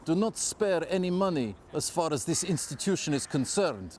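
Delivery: lightly put-on Russian accent; Lenin in Russian accent. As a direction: quote it in a slight Russian accent. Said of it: "that's supposed to be a Russian accent".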